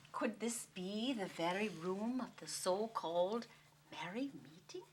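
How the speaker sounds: put-on hushed Irish-accented wondering. Storyteller wondering about the famous room, hushed Irish accent. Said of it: "do it with an accent".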